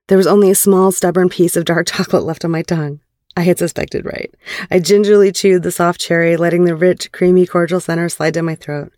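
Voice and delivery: measured, clearly phrased audiobook read; story narration. A narrator's reading. Narrator recounting a private phone call to listeners, story narration. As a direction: read it as an intimate first-person story. Reads erotic fiction aloud.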